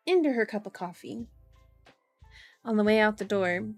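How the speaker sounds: measured audiobook-style reading; story narration. A narrator's reading. Streamer reading a novel to viewers, story narration. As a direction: read the story out evenly and clearly.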